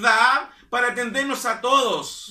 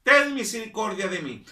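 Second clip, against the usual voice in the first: crying out. Retold or imitated. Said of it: "comenzó a dar voces diciendo".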